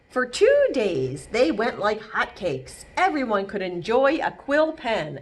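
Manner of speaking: gentle read-aloud narration; storybook reading. A narrator's reading. Reading Elmore's story aloud to children, gently. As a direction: tell it like a bedtime story. Reading picture book to kids.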